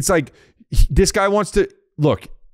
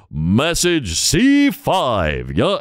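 very slow, drawn-out recorded announcement; automated phone message; 3 semitones higher, much slower than usual. Retold or imitated. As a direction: mimic an old landline recording. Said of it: "it would say".

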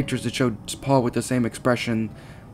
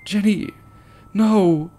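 anguished high yell of a name; 8 semitones higher, 5 dB louder, much slower than usual. A narrator's reading. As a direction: cry the name out in despair. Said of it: "yelled out".

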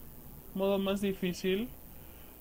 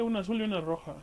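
ordinary delivery

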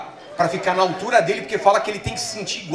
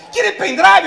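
high, loud hawker voice in Spanish; Paraguayan street hawker; 12 semitones higher, 8 dB louder, slower than usual. Retold or imitated. Paraguayan vendor offering a pendrive to a tourist, loud and high. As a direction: call out like a street seller.

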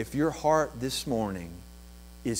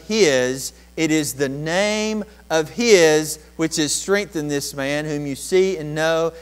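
reading Peter's words; 4 semitones higher, 7 dB louder than usual. Acted. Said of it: "he says".

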